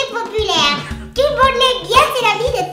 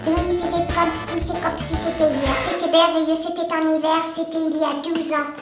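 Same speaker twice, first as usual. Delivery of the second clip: helium voice. Real, not acted. En inspirant l'hélium contenu dans des ballons.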